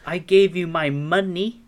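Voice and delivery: mock outrage, demanding the food back; angry complaint. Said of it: "I go to the counter and say".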